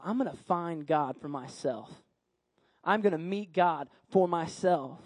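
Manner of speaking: low, soft, earnest inner monologue; Samuel's quiet resolve. Acted. Boy resolves in his heart, quietly earnest. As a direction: speak inwardly with growing conviction, hushed.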